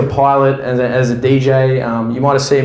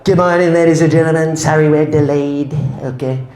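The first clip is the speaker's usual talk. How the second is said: Trump impression. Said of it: "maybe Donald Trump is your pilot".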